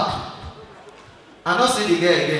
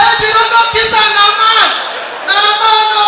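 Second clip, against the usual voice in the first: much higher, louder warning yell; frantic shout; 11 semitones higher, 7 dB louder than usual. Retold or imitated. Shouting at his brother kissing the man, frantic. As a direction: scream at him to stop. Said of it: "Now I said".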